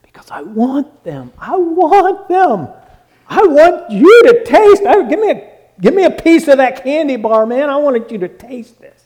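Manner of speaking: high, swooping excited insistence; gushing, can't-wait-to-share enthusiasm; eager urging. Acted. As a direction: press them eagerly to try it. Acting eager sharing of food.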